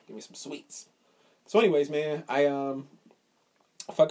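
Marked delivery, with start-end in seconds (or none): 0.1-0.9 unvoiced whisper of greed; whispered craving. His private thought about the candy, whispered. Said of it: "part of me was like".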